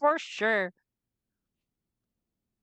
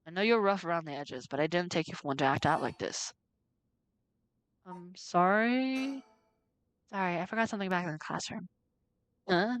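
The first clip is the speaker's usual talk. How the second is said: put-on lower, teasing old man's scolding; lightly voiced stern janitor; 3 semitones lower than usual. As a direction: scold a student gently.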